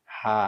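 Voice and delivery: an easy, airy হা; light ha. Shown as a demonstration. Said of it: "গোল হাটা হবে হালকা আওয়াজে". (হালকা আওয়াজে গোল হা)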